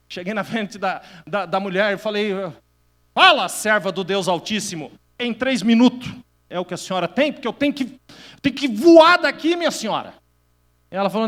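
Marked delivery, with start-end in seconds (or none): 3.1-10.1 loud impatient mock urgency; impatient hurry. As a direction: impatiently hurry the woman up, in a rush to leave. Hurrying a woman who wants to talk.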